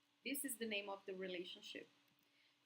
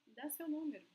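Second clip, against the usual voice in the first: friendly request; 5 semitones higher, much faster than usual. Shown as a demonstration. Teacher showing students the polite way, friendly ask. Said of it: "it must be like".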